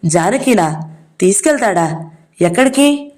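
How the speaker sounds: jolted brother asking in disbelief; startled. Acted. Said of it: "అదిరిపడ్డాడు Satyam". (అదిరిపడుతూ)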